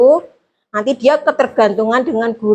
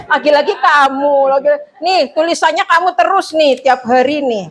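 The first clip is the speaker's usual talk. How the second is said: mock scolding; 3 semitones higher than usual. Shown as a demonstration. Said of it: "penghukumnya biasanya kayak gitu".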